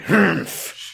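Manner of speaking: high-pitched grumpy humph; put-on indignant harrumph; mock huff. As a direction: huff like a thwarted villain. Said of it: "And they're like".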